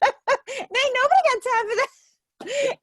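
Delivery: high-pitched, stretched-out exasperation, hammed up; viral-video impression. Recalling news clip watched in the car, high comic exasperation. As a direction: imitate an indignant news interviewee.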